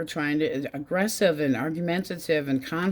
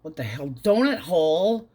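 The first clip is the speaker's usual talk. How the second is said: sassy retort; 3 dB louder than usual. Retold or imitated. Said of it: "And I'm like".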